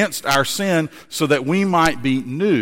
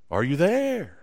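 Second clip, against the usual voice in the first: softer echo coming back; 3 semitones higher, 4 dB quieter than usual. Acted. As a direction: answer like a distant echo. Echo answers the boy.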